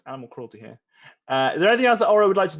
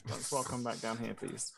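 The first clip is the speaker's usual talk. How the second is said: whispering; 4 semitones lower, 14 dB quieter than usual. Pretend. Calling character back quietly.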